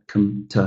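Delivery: reduced "com-, t"; weak unstressed "com-, t". Shown as a demonstration. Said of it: "are shorter".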